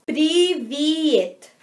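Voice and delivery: привет slowly drawn out in two clear syllables, "pree-vyet"; pronúncia didática. Shown as a demonstration. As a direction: teach привет slowly, stretching each syllable. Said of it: "se diz привет". (привет bem devagar, sílaba por sílaba)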